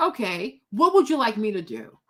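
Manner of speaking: stoic, even, level delivery. Retelling own reply to a woman asking for help: stoic reply. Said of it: "Just like that".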